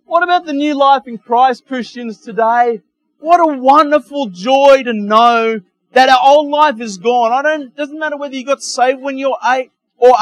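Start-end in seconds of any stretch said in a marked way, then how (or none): 0.0-6.2 building up. Acted. Building to a climax.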